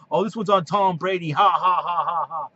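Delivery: imitating haters laughing, light and taunting; mocking laughter. Mocking the Patriot haters, imitated gloating laugh. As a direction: laugh it off like a smug rival fan. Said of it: "everybody's gonna be laughing, going".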